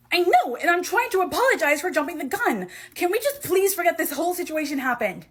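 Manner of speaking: heated quarrel. Acted. Heated quarrel over an insult.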